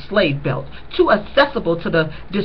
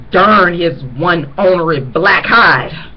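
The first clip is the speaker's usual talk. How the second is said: slow, louder folksy curse in a put-on voice; scornful relative; 5 dB louder, slower than usual. Grandmother damning the absent father, slow scornful curse. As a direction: drawl the curse with disgust.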